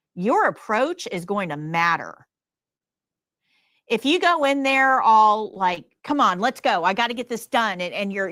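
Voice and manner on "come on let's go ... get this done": impatient, rushed, pushy hurrying tone. Acting out an approach that rushes people, rushing and pushy. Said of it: "you're rushing them".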